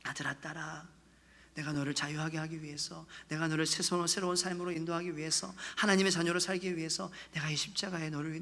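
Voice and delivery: soft, low, fatherly comfort; tender reassurance. Acted. God comforting his sons and daughters, tenderly. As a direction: speak gently, as if to a beloved child.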